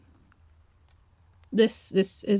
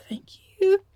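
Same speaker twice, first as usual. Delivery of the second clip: breathy thank you; 10 semitones higher than usual. Acted. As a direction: barely voice your thanks. Grateful after being held.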